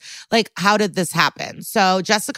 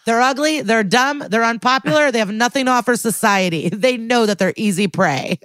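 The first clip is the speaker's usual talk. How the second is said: higher-pitched, hammed-up harsh tirade; mock rant; 4 semitones higher than usual. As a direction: imitate a detective's blunt outburst. Acting out detective's wild rant.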